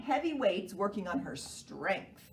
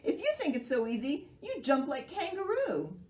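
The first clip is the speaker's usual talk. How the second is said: gruff; 6 semitones higher than usual. Acted. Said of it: "said Monkey gruffly".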